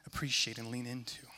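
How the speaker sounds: whispered. Retold or imitated. End of quoted encouraging words.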